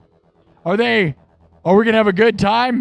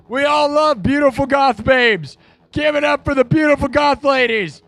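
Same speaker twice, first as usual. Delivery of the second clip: emcee hype; 4 semitones higher than usual. Acted. Announcing the winner like an emcee.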